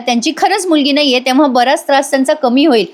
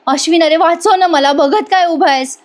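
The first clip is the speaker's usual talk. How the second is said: higher, urgent plea to Ashwin; begging husband; 6 semitones higher than usual. Retold or imitated. Priya pleads with Ashwin to save her, higher mock plea. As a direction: beg him to help, half reproach. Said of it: "Priya म्हणत असते".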